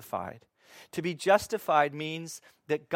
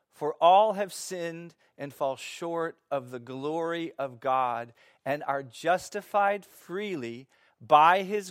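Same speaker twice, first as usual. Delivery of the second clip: scripture reading. Acted. Reads scripture passage aloud.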